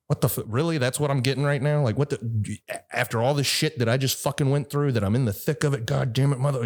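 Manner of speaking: mock-furious venting without shouting; retold anger. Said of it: "I'm just angry".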